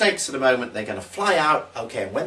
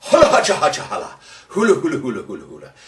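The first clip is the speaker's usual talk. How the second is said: magic words; 5 dB louder, faster than usual. Acted. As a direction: cast the spell like a showy stage magician. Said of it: "The magic words".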